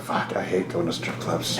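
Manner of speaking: low, slow, hushed mock grumble; reluctant aside. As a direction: imitate a friend dreading it under his breath. Comic dreading the owner's plan.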